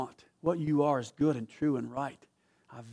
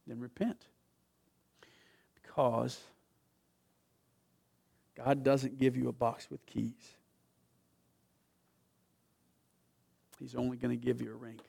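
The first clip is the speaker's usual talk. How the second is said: much softer, hushed invitation; quiet appeal; 2 semitones lower, 8 dB quieter than usual. Real, not acted. Pastor inviting the church to repent, hushed. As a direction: draw them in softly.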